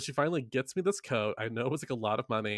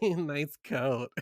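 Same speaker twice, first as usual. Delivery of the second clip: sarcastic; 3 semitones higher than usual. Retold or imitated. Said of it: "one awful kid to be like".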